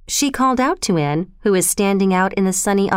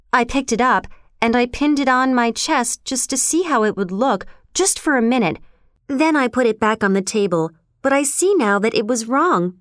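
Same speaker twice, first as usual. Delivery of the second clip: higher, lightly voiced young girl; earnest, confessing Anne; 4 semitones higher than usual. Anne admits trying on the brooch, earnest and higher. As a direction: explain earnestly, lifting on the promise.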